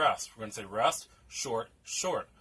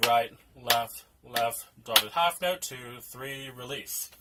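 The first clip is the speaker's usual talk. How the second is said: counting hands; slower than usual. Shown as a demonstration. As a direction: call right and left on the beat. Teacher counts hand pattern while clapping.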